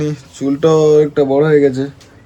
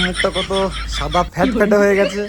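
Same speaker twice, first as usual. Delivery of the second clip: laughing; 5 semitones higher, 5 dB quieter than usual. Real, not acted. Laughs at own whitened face.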